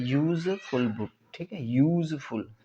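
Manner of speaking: यूज़फुल said slowly with a clear य start; pronouncing useful. Shown as a demonstration. Teacher models यूज़फुल slowly to the class. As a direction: draw out यूज़फुल, leading with य. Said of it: "देखिए, य आ रहा है".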